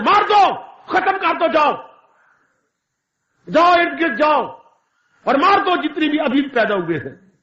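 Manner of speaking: Kansa commanding his demons to slaughter; tyrant's order. Acted. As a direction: cruel king ordering the killing of the newborns. Kansa orders newborns killed.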